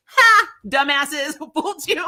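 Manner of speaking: laughing taunt. Retold or imitated. Mocking taunt from the studio.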